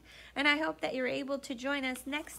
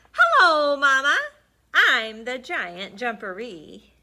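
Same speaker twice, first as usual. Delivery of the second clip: put-on cheeky baby voice; 3 semitones higher, 14 dB louder than usual. Baby frog revealed.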